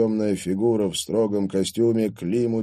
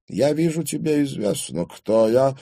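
threatening, raised-pitch question; menacing; 7 semitones higher than usual. A narrator's reading. Old father confronts daughter's boyfriend, menacingly. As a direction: size him up with menace. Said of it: "угрожающе спросил старик".

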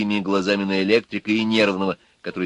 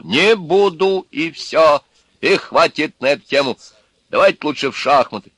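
higher, louder, firm refusal; stubborn electrician; 6 semitones higher, 6 dB louder than usual. A narrator's reading. Electrician refusing to drink to the others, stubborn. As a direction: dig your heels in.

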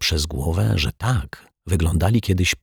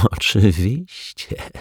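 giggling; 3 semitones higher, slower than usual. A narrator's reading. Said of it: "zachichotał".

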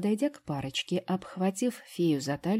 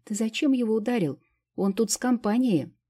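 higher, louder reproach; indignant scolding; 6 semitones higher, 4 dB louder than usual. A narrator's reading. Fairy scolding Vitalik over the punch, indignant. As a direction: tell him off sharply.

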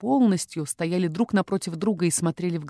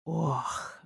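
a soft gasp breathed out, much softer; exhaled gasp; 9 dB quieter than usual. A narrator's reading. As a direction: breathe out "Ох" in his face. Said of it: "выдохнул мне в лицо". (выдох «Ох!», очень тихо)

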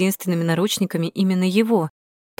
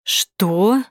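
hissed what; 4 dB louder than usual. A narrator's reading. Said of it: "зашипел Соколов".

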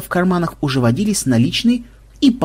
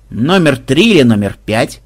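businesslike; 3 dB louder than usual. Acted. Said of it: "деловито уточнил Дварф".

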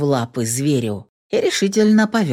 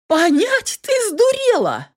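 much higher, incredulous outburst; furious disbelief. A narrator's reading. Lilka explodes at Yana for defending him. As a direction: shriek at her in disbelief.

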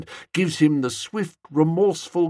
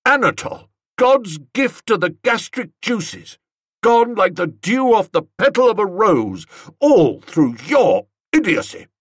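loud, higher, theatrical despair; grand lament; 5 semitones higher, 5 dB louder than usual. Acted. Aunt mourns the departed cook at Bertie, loud dramatic lament. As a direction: mourn him loudly like a tragedy.

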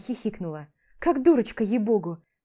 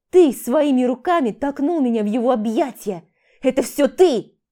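pin it all on him; blaming; 2 semitones higher, 5 dB louder than usual. Acted. She blames husband. (громкое обвинение)

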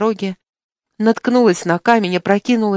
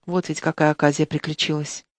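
ordinary delivery

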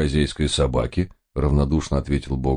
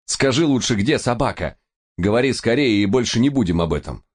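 higher, urgent demand speeding to the end; angry demand; 7 semitones higher than usual. A narrator's reading. Narrator angrily demands to know where the dog is. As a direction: push him hard, then rush through. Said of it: "разозлился я".

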